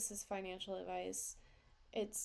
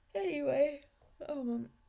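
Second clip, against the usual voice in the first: loud, high, words stretched mid-yawn; 6 semitones higher, 7 dB louder than usual. Late in the evening, speaker yawns while talking, yawning. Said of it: "I'm sorry for yawning".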